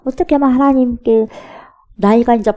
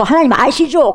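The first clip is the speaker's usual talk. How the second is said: louder, higher appeal to God; 뭉뚱그린 기도; 5 semitones higher, 5 dB louder than usual. Acted. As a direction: blurt it all out in one go. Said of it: "몽땅해가지고". (한꺼번에 크게 아뢰듯)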